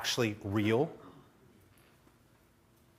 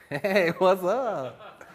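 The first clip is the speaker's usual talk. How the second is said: slow, drawn-out, higher hello; casual hero greeting; 5 semitones higher, much slower than usual. Acted. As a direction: play the nonchalant hero, stretching the words. Acting nonchalant injured childhood hero.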